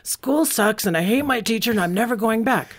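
a son home from school venting; sulky teen outburst. Retold or imitated. Son venting after a bad school day, fed up. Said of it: "flung his backpack in the hallway and said".

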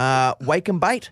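"bait" said slowly and clearly, rising; slow "wake and bait" with a rising end. Shown as a demonstration. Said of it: "Instead of wake and bake".

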